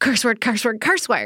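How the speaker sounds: cross, annoyed, fed-up outburst. Retelling a best friend getting mad over a puzzle: imitating a friend getting mad. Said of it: "she'd get mad".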